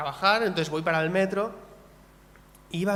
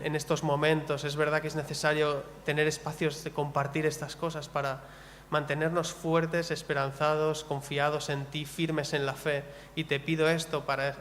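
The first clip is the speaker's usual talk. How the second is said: closing prayer; 2 semitones lower than usual. Acted.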